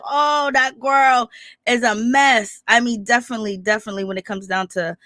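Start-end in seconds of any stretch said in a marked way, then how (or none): 0.0-2.6 slow, drawn-out dismissive judgment; exasperated aside. Retold or imitated. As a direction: shake your head and drag it out, unimpressed. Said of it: "I be like".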